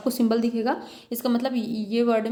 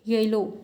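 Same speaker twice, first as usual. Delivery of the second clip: "येलो" with "ये" and "लो" both weighted; stress on both syllables; slower than usual. Shown as a demonstration. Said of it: "येलो में दोनों में आपको दिख रहा है". ("येलो" में दोनों पर बराबर ज़ोर)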